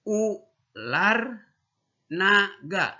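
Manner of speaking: "Ular" high and rising, "naga" falling; sing-song teacher model for kids to echo; model for repeating. Shown as a demonstration. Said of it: "Yuk ulangi, ikuti".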